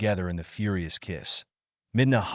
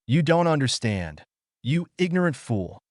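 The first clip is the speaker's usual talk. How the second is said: raised, enraged voice; yelled in rage; 4 semitones higher than usual. Acted. Midna to Naruto, enraged yell. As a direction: throw the insult at him in anger. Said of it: "Midna yelled in rage".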